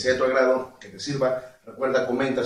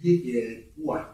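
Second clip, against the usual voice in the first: ua duck sound; slower than usual. Shown as a demonstration. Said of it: "Así".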